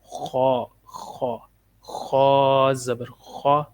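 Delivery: "خو" with a full, heavy throaty kh; "خا" and "خو" said heavy, toward an O; thick, heavy letters. Shown as a demonstration. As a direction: round and thicken the vowel in "خو". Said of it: "ان کو ہم نے موٹا پڑھنا ہے".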